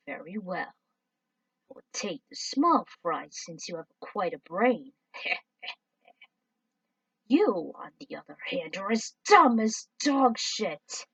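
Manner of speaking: mildly voiced cold villain; scornful villain. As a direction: belittle them with contempt. Villain insults alien.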